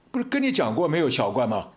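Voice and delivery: a loud, impatient "we already told you"; fierce scolding. Retold or imitated. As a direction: bark it at the pesky customer. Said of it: "叫我好凶哦". (凶巴巴地大声训斥)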